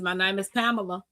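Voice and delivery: "Pamela" said PAM-uh-luh, stress up front; quick, low "Pamela" as PAM-uh-luh; English pronunciation. Retold or imitated. Correcting passengers on her name, "Pamela" as PAM-uh-luh. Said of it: "But it's Pamela in Spanish".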